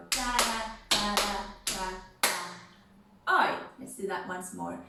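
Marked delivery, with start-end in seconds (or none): 0.1-3.6 da da count drawn out slower, oi on the end; slow chanted count with a punchy oi; slower rhythm. Shown as a demonstration. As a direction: stretch the beat out slowly. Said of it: "Either ... or we go".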